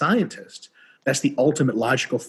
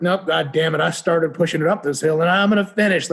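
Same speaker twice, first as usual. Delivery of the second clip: stubborn refusal; 5 semitones higher, 4 dB louder than usual. Retold or imitated. Stubborn pusher refuses to change.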